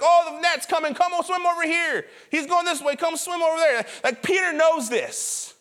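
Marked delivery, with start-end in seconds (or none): 0.0-3.9 higher-pitched playful voice for a silly fish; talking fish. Pretend. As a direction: call out like an excited little fish, hammed-up. Voices fish talking to each other.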